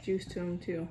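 chewing while talking; talking between bites; mouth full of tomato. Real, not acted. Seen 1: Bites tomato at -1 and +2.6, talks between bites holding it.

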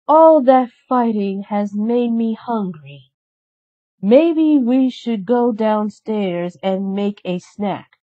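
lightly voiced fairy suggesting. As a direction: suggest it lazily, a little hungry. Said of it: "Merryweather suggested".

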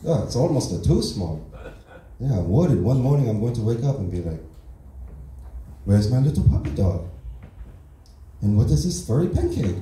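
put-on broken English in a light Asian accent; deadpan Asian-accent stand-up persona. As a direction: play the fresh immigrant with a mild Asian accent. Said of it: "that's not how I actually talk".

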